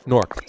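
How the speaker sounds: "Nork" as one syllable, rhyming with fork; local Jersey pronunciation. Shown as a demonstration. Host correcting to the Jersey way, one-syllable "Nork". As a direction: squash Newark into a single-syllable "Nork". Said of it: "It's Nork".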